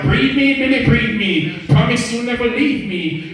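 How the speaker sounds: lightly acted amorous plea; imitated lover's plea. Voices lover's plea in poem.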